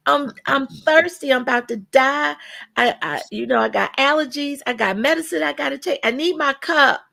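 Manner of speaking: fake-nice coworker who grows impatient; overly sweet mock-polite request, escalating to impatient. Shown as a demonstration. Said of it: "I didn't say".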